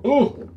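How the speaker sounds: short, high, loud "oh"; a sudden high grunt of effort. Real, not acted. Man hefting a heavy power supply, effort grunt.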